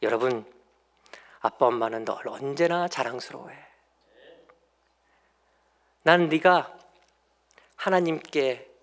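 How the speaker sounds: put-on soft, tender words to a child; loving blessing. Shown as a demonstration. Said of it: "이렇게 얘기하는 게 아니라".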